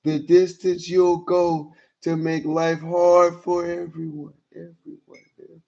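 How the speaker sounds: mocking, overly dramatic reading of her texts; theatrical reading. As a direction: read it like a melodrama, milking each sad. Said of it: "This is theatrical".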